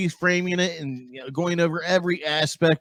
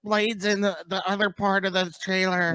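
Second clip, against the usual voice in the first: mocking trailer breakdowns; 6 semitones higher than usual. Imitating YouTubers who drive him nuts, mock revelation. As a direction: play an obsessive fan announcing a find, pitched way up. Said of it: "people are driving me nuts".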